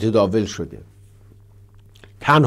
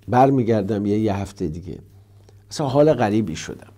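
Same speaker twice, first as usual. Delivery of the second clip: usual speaking voice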